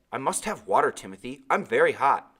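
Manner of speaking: put-on loud, begging boy; pleading boy. Thirsty boy begging Timothy, pleading. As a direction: beg for the water.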